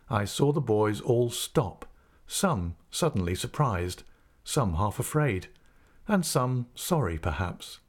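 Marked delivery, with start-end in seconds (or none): none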